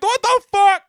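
high, loud mock scream. Retelling the Mustang driver's scream, high mock yell. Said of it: "Guy starts screaming".

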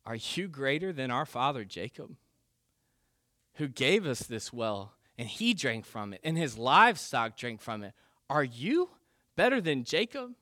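pointed sarcastic challenge, rising on the final question. Acted. Samaritan woman needling Jesus about father Jacob, sarcastic. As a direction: needle him with mock disbelief. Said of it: "hear the sarcasm in her voice".

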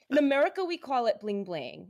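squeaky playful cartoon girl voice; a light Harley Quinn impression. Shown as a demonstration. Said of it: "Should I do it as Harley Quinn?".

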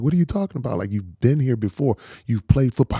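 mock disbelief, talking someone out of nerves; incredulous wife. Wife pushing back on his fear.

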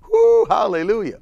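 a loud, high joyful woo; celebrating hallelujah; exultant whoop. Real, not acted. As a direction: shout it out in praise. Preacher exulting in praise.

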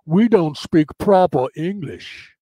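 slow, put-on proper English; English accent, stretched out; lightly mocking proper English accent. Mocks speaking proper English.

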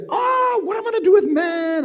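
high, loud, fast flustered voice; mock confused God. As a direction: play God as clueless and panicked.

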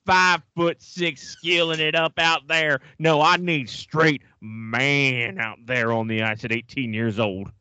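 put-on Southern Ontario accent, slowed right down. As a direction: play a blustering Southern Ontario hockey dad. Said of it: "That Southern Ontario accent is spot on".

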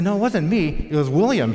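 high and loud, pointing the blame; a kid yelling it wasn't her; child's shout. Retold or imitated. Sister blaming brother, retold.

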